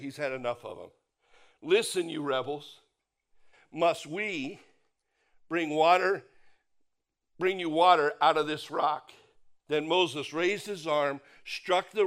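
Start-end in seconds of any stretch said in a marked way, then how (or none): 1.6-9.1 louder, exasperated "rebels"; rising to a loud scold on "bring water"; angry retort. Retold or imitated. Fed-up Moses scolding the rebels, loud and angry. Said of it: "He's pretty ticked".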